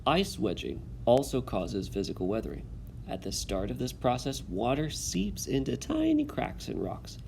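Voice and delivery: steady classroom read-aloud. Acted. Teacher reads text aloud.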